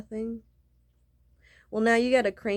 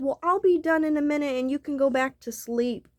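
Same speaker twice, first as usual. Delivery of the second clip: mock sweet dismissal; 6 semitones higher than usual. Quoting the woman.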